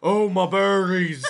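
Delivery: mock crying. Gnome shot in the crotch.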